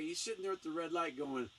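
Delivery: ordinary delivery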